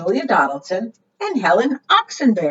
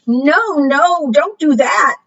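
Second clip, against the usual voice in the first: alarmed plea; 7 semitones higher, 4 dB louder, slower than usual. Acted. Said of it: "said all the other animals".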